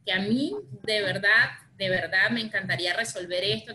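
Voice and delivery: earnest and heartfelt, leaning on "de verdad"; mean every word, "de verdad" stressed warmly; sincere. Shown as a demonstration. Mediator showing a client sincere willingness to help. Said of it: "porque no es lo mismo decir que".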